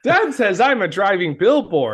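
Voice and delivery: lightly voiced simple kid; a hint of a dim little boy; Ralphie. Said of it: "he's like Ralphie from The Simpsons".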